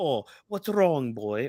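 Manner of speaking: slow, shoddy, put-on British accent. Acting out a character's line, in a shitty british accent. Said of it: "that's my shitty British accent right there".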